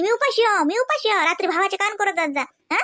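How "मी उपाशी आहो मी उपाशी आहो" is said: mocking whine. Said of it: "घरात म्हणता की".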